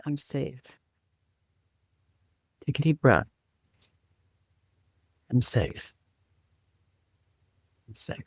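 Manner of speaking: soft, unhurried calming affirmation with long pauses. Shown as a demonstration. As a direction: guide them gently, letting each phrase settle. Leads a calming tapping exercise.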